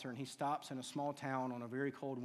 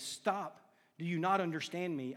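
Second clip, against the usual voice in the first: urgent loud protest; 4 semitones higher, 5 dB louder than usual. Acted. Convict protests to the bishop.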